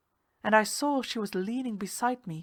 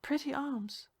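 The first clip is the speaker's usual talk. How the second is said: purring tease; 7 semitones higher, 5 dB quieter than usual. Acted. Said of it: "speaking close to my ear".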